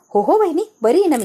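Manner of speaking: nervous reassurance. Acted. Aunt nervously covers up.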